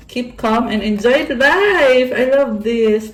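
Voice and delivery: loud, high, drawn-out gushing; real excitement, stretched and lifted; delighted exclamation. Real, not acted. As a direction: read it out with rising delight. Delighted reading of a card's message.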